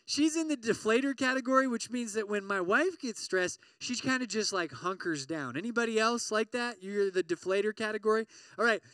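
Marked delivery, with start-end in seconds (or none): none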